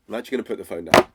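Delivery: fast, brusque hang-up; impatient prospect. Pretend. Coach plays a prospect cutting the call, fast and brusque. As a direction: rattle it off fast and dismissive. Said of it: "He hung up on me".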